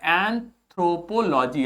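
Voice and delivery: एंथ्रोपोलॉजी said slowly, syllable by syllable, एन then थ्रोपोलॉजी; slow careful pronunciation. Shown as a demonstration. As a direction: sound out एंथ्रोपोलॉजी as एन-थ्रो-पो-लॉ-जी for the class. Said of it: "pronunciation यहाँ पर लिखा हुआ है". (धीमे, साफ़ उच्चारण)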